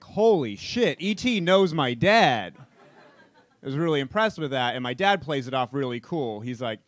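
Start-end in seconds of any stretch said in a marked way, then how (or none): 0.0-2.5 put-on awed, slowed-down kid gasp; amazed kid. Boy amazed that E.T. knows his dad, awed. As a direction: marvel like a stunned eight-year-old. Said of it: "And I'm like".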